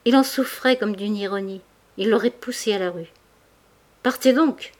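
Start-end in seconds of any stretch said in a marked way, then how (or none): 4.0-4.7 higher, louder anguished shout; tearful cry. A narrator's reading. Mouret sends Denise away, tearful shout. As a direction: cry it out through tears. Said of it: "cria-t-il dans un flot de larmes".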